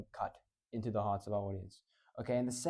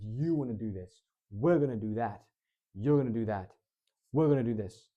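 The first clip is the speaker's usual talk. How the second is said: firm, competent; 6 dB louder than usual. Shown as a demonstration. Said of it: "contrast that with".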